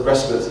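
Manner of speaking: respite said as RESS-puts; alternative pronunciation. Shown as a demonstration. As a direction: say respite with a short, unstressed second syllable. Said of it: "How do you say it here?".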